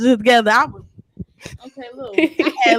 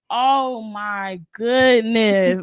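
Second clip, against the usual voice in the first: slow, lower, drained groan of a complaint; weary disbelief; 4 semitones lower, 5 dB quieter, much slower than usual. Retold or imitated. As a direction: sound worn out and queasy, dragging the words. Nauseous on the Greyhound bus.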